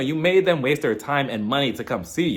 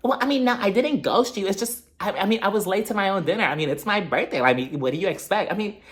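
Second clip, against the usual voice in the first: higher, flustered mock excuses; imitated defensive backpedaling, pitched up; Mia; 5 semitones higher than usual. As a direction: scramble for excuses, starting and restarting. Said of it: "she was just like".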